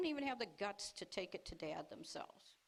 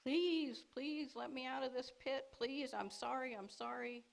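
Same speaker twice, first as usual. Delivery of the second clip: mild mock pleading from the pit; a hint of desperate begging; lightly acted frightened plea; 5 semitones higher than usual. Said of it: "he was screaming and pleading and begging".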